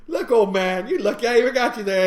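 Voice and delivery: high, loud bickering; mock scolding. Wife telling off her grumbling passenger, mock scolding.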